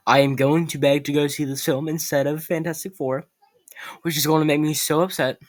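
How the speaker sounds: whispered aside; breathy secret whisper. Real, not acted.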